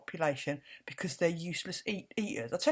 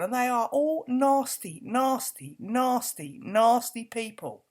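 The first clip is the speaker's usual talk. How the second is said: angry repetition; 4 semitones higher, 5 dB louder, slower than usual. Real, not acted. Angry rant.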